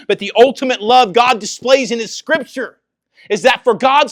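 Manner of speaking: high, loud, driving sermon delivery; impassioned preaching. Acted. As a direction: preach it out with full force. Preaches at full force.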